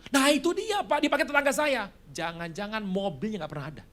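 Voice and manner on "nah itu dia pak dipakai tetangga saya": high, louder flustered excuse; imitating a caught debtor. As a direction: blurt the excuse nervously. Excuse-maker caught again.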